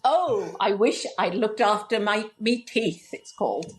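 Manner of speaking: attempted West Country accent reading a comic poem; poem in a light West Country accent. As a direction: read it with a rough West Country lilt. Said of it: "I can't quite do the West Country accent".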